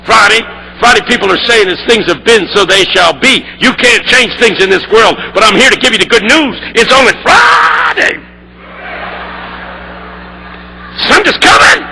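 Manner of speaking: preaching that builds into a shout; old pastor's sermon, building to the climax; retelling the pastor's preaching. Retold or imitated. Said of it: "He took off".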